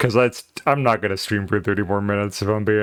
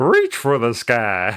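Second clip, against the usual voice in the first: silly, hammed-up cowboy voice. Streamer trying out a cowboy voice for fun: silly cowboy voice. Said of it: "A silly cowboy voice for five minutes?".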